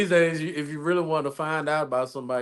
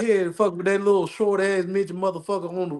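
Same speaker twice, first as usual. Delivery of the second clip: raised, taunting send-off; like a singer; 4 semitones higher, 3 dB louder than usual. Acted. Wronged man sending cheating wife away, taunting. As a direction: dismiss her with mock scorn. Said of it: "like a singer".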